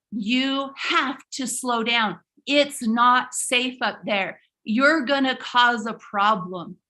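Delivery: slow, deliberate warning; lightly voiced stern lady; warning stranger. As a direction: lecture him slowly about danger. Lady grabbing son, warning.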